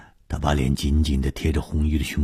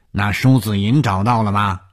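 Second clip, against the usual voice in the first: raised, probing question; tentative probing; 5 semitones higher, 4 dB louder than usual. A narrator's reading. 洪金 sounding out 武刚 about the missing captive, tentative. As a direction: feel him out with the question. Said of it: "洪金试着问".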